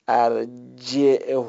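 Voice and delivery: ارجعه stretched out clearly; teacher spells out ارجعه slowly; slow model reading. Shown as a demonstration. Explaining the root to students, slowly. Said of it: "چون اگه از ریشهٔ".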